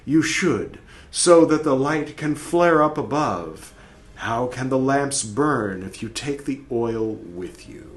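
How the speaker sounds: dramatic soul speaking to the dead; lightly voiced soul, stern; soul's voice reading. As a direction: read it as the accusing soul. Reading Red Book soul's speech.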